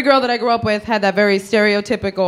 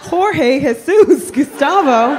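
cooing at dolls; 6 semitones higher, slower than usual. Pretend.

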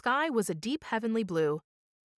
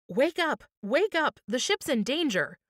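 urgent shout; 4 semitones higher than usual. Acted. Blackie shaking his sleeping friend awake, urgent shout. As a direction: rouse him in a panic. Blackie wakes Christie, ship in danger.

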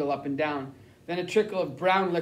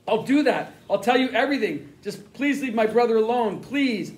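begging; 4 semitones higher, 3 dB louder than usual. Acted. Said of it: "I begged".

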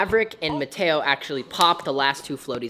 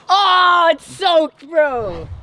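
high, louder startled reaction; surprised; 11 semitones higher, 9 dB louder, much slower than usual. Real, not acted. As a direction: react to the soaked phone. Phone fell in water.

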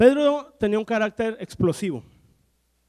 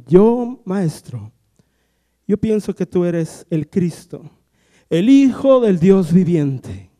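solemn declaration; 4 dB louder, much slower than usual. Retold or imitated. Peter declares Jesus is Christ.

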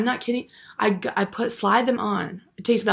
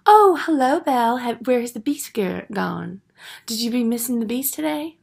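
mocking friends; 3 semitones higher than usual. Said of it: "and they say".

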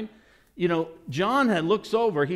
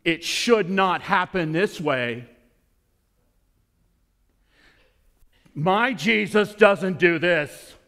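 indignant believer; 3 semitones higher, 5 dB louder than usual. Retold or imitated. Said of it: "pulled a John".

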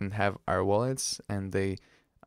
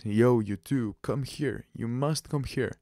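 mock bossy summons, slightly raised; mildly aggressive; 2 semitones higher than usual. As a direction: imitate an insistent order to come over. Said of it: "suddenly got even more aggressive".

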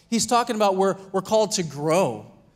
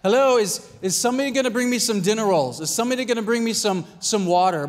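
impatient calling out; 3 semitones higher than usual. Retold or imitated. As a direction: call out to the kitchen like a fussy customer. Husband demanding service at home.

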